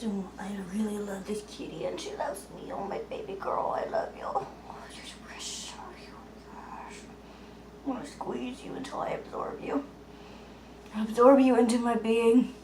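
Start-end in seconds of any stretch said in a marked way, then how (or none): 0.0-9.8 cooing whisper. Real, not acted. Whispering lovingly to her cat. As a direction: whisper sweet nothings to a cat.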